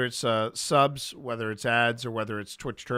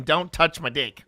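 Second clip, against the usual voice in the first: put-on New Zealand accent; 2 semitones higher, 4 dB louder than usual. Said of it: "that was a New Zealand accent".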